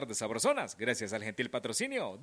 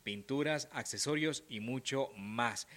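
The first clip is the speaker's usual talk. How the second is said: ad read. Acted. Radio sponsor ad read.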